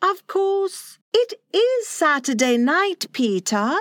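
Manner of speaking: high, conceding mother voice; high-voiced woman softening her objection; relenting. A narrator's reading. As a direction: give in gently, pitched high. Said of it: "said Wendy, relenting".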